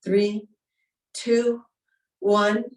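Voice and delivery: called-out countdown; loud count-in. Acted. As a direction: call the count to the room. Counting in the round.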